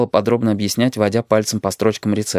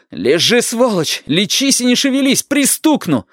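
high-pitched, raging order; acted enraged grandson; furious threat; 13 semitones higher than usual. A narrator's reading. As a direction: threaten grandma at the end of your tether. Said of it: "Ты сама громче орёшь".

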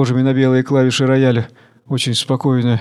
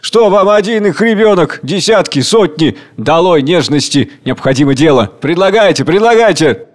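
loud, higher angry shouting; angry chairman; 4 semitones higher, 4 dB louder than usual. Acted. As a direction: slam them down furiously. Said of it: "Председатель гневно".

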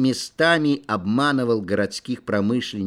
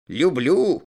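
usual speaking voice

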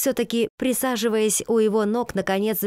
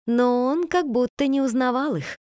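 ordinary delivery

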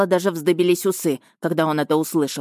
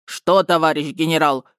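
mocking mimicry. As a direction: echo him mockingly. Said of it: "передразнил его Бочкин".

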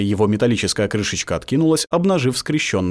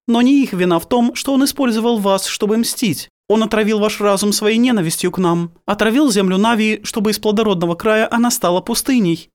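stern priestess, higher, building in force; rising commanding voice; 11 semitones higher than usual. A narrator's reading. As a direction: grow more forceful with every phrase. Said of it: "Голос Геневы повышался с каждым словом".

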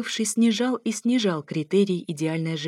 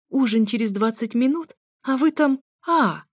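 higher, raised mimicking voice; languid loud mocking; 5 semitones higher, 4 dB louder than usual. A narrator's reading. Narrator mimicking the lovers at the bathroom door, loud languid mockery. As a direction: tease them with a swooning moan. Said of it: "Громко и максимально томно передразнила я".

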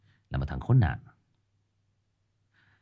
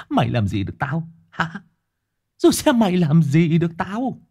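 booming echoing villain monologue; 12 semitones higher, 6 dB louder than usual. Shown as a demonstration. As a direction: taunt like a cruel villain. Villain taunting demo.

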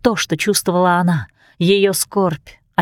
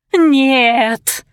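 wailing cry; 6 semitones higher than usual. A narrator's reading. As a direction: cry out no in dismay. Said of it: "в разнобой заголосили сёстры".

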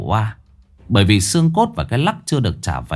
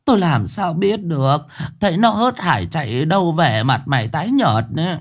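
worried; 5 semitones higher than usual. Acted. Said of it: "lo lắng".

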